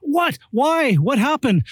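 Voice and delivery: quick, startled what-why-what-happened; imitating a surprised friend. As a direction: play a friend caught off guard by the news. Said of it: "what the conversation goes after somebody says that".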